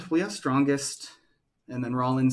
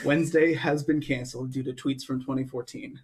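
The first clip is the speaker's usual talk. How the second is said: laughing joke. Pretend.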